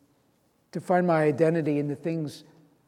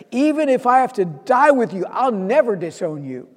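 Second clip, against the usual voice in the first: fervent declaration; 7 semitones higher, 7 dB louder than usual. Retold or imitated. Peter declares loyalty.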